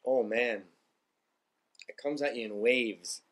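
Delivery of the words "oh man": pained groan from pepper heat; strained, burning mouth; mouth burning from spicy food. Real, not acted. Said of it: "the hot gets you right away".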